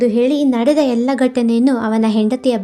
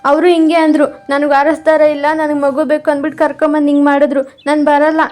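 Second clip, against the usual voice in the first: put-on frightened boy refusing; 5 semitones higher than usual. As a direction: back away in fear, refusing to go.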